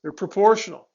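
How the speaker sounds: proportional given a firm teacher's emphasis; mild stress landing on proportional. Shown as a demonstration. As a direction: lean on the word proportional so it sticks. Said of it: "I'm emphasizing the word proportional there".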